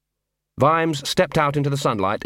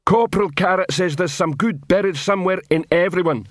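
a dim troll sounding off proudly; troll shouting to attention; 7 semitones higher than usual. Acted. Troll guard shouting his captain's name.

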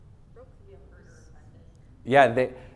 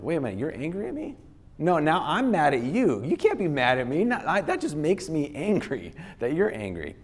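fast, higher, mock-offended comeback; mock angry retort; 5 semitones higher than usual. Speaker acting out getting mad at someone angry with him, fast mock retort. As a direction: fire back fast, pitched up, a little hammed.

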